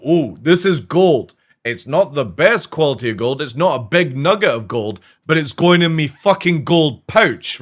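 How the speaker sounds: mock miner. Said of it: "You go".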